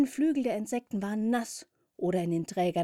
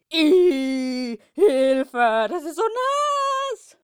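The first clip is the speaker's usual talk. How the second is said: high, loud panicked squeal; panicked shriek; 9 semitones higher, 10 dB louder, much slower than usual. Acted. Soaked cat shrieks in panic as it falls, high and loud. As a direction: squeal in panic, much higher and louder. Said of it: "Voller Panik verlor die Katze".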